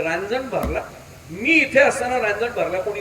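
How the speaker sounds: proud disbelief, rising on the challenge; affronted pride. Retold or imitated. Official to his men on hearing the news, acted affronted pride. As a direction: demand it like an offended self-important man. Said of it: "काय गर्व आहे".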